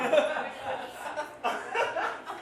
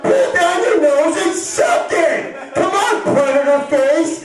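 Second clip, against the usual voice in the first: screaming at the screen; 11 semitones higher, slower than usual. Retold or imitated. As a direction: bellow it slowly at the girl on screen. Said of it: "I start screaming at the girl".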